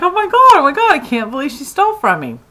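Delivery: fuming at being stolen from; worked-up outburst. Retold or imitated. Stomping around after theft.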